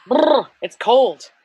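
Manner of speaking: shivering, slow, through chattering teeth; brr, shiver through the words. Real, not acted. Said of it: "it's really fucking cold".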